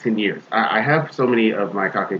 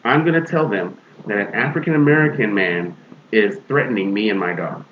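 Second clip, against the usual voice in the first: retold threat; 5 semitones higher than usual. Retold threat to call police.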